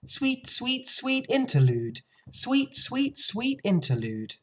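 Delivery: lilting little birdsong; song sparrow song. A narrator's reading. Song sparrow singing of brief lovely life, lilting call.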